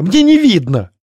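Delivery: high distressed cry; blurted out. Acted. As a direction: complain in panic while running. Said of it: "выпалила высокородная".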